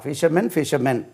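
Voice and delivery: ஃபிஷர்மேன் twice, both endings sounding like "men"; identical pronunciation. Shown as a demonstration. Teacher showing singular and plural sound alike, ஃபிஷர்மேன் said identically, ending "men". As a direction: say ஃபிஷர்மேன் the same way twice, last syllable "men". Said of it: "மேனுக்கு உச்சரிப்பு ஒண்ணு தான்".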